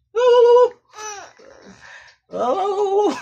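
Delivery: very high, loud delighted oh. Real, not acted. Father squeals with delight at his baby, very high.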